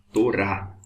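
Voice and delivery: Torá spoken slowly, syllable by syllable. Shown as a demonstration. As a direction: say Torá as to and ra joined. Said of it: "Aqui é to". (Torá pronunciada sílaba por sílaba)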